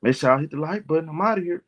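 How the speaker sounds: slow, subdued mock stream host; put-on polite, measured delivery, halting between phrases; mock quiet talk. Shown as a demonstration. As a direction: demonstrate a dull, restrained way of hosting. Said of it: "if you want me to talk quiet".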